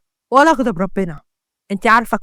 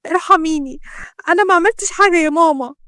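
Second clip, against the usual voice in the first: higher imploring voice; pleading; 3 semitones higher than usual. Acted. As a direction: protest innocence, begging for mercy. Beaten daughter begs her mother.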